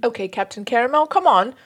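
moderately put-on British voice; horrible British accent. Reading a letter's plea to Captain Caramel, horrible British accent. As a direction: coax in a lightly hammed bad British accent. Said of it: "do a horrible British accent".

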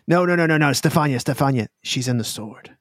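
high, quick repeated no's; urgent correction. Acted. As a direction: hurry to set her straight.

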